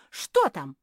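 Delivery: loud, excited squeal. A narrator's reading. Seamstress asking about the mysterious box, squealing. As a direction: squeal it out, bursting with curiosity. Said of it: "взвизгнула".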